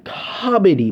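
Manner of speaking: doubtful, emphasised "Comedy"; mildly incredulous; sceptical quote marks. Real, not acted. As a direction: say the word as if in quotation marks. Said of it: "quotation marks everywhere".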